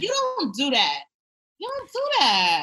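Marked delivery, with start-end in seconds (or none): 1.6-2.6 scolding shout. Retold or imitated. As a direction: yell it like a scolding. Scolding Michael, repeated louder.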